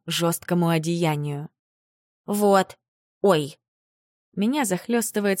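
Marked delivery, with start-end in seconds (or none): 2.2-3.6 startled little gasp, embarrassed; flustered oops. Acted. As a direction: catch yourself, flustered. Embarrassed gasp mid-kiss.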